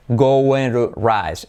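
"going to" slowly, the T of to softened to a light R; soft T. Shown as a demonstration. Teacher showing the T like a soft R, slow demonstration. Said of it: "la T como R suave".

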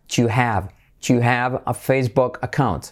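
"Do you" merged into "dju"; contracted do you. Shown as a demonstration. Teacher modelling contractions for students, merged "Do you". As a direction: run "Do you" together as one "chu" sound. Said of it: "Do you se convertiría en you".

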